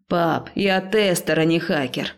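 slow, limp objection; listless protest. Acted. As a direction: object without energy. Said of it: "вяло возразил брат".

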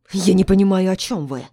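nearly breaking into a shout in denial; the duke nearly shouting his denial at the doctor; sharp, nearly shouting. A narrator's reading. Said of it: "резко, почти переходя на крик".

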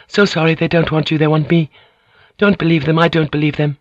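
high, earnest pleading. Acted. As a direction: beg him to believe you. Mariko begging Blackthorn.

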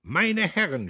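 strained shout. A narrator's reading. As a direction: force it over the roaring crowd. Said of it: "schrie er angestrengt".

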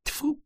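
high, quick spitting noise; disgusted spit sound. A narrator's reading. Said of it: "Она сердито пнула".

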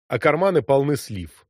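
usual speaking voice

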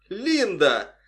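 bright, happy call of her name; glad exclamation. A narrator's reading. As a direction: greet her with joy. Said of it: "обрадованно воскликнул Джей".

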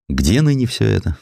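ordinary talk

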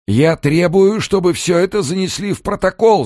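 high, loud furious yell. A narrator's reading. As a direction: scream it at the gendarme. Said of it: "заорал Амерс".

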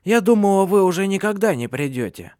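put-on high, loud, scolding old crone; sharp old woman. A narrator's reading. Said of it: "резко произнесла старуха".

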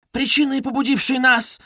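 high-pitched lofty declaration; haughty. A narrator's reading. Noblewoman explaining herself to her benefactor, haughty. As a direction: begin a grand explanation loftily. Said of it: "начала она свысока".

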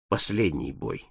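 low, soft, resigned; sad. Acted. Paul foretelling his death, low and sad. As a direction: drop it like a verdict on himself. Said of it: "полным грусти и нежности".

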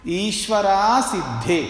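ईश्वरा सिद्धे said slowly with every letter full; full Sanskrit reading. Shown as a demonstration. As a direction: say ईश्वरा सिद्धे exactly as written, each syllable whole. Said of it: "जैसा लिखा है वैसे बोलो". (ईश्वरा सिद्धे को धीरे, हर अक्षर पूरा बोलें)

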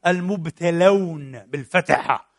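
المبتلون spelled out slowly, with a clear open a-vowel on the t; slow, careful المبتلون, leaning on the fatha; stressed vowel. Shown as a demonstration. Preacher corrects the listeners' vowel, slow careful pronunciation. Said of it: "فتح، مش تقولي المبتلين".

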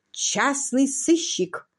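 slow, proud announcement. Acted. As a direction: savour each word with pride. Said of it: "гордо объяснил граф". (гордо и неторопливо)

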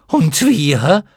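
very high, loud, slow mocking shriek; screaming chorus. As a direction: jeer it back together. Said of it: "antwortete der Chor". (Mottenchor schreit höhnisch und sehr hoch)

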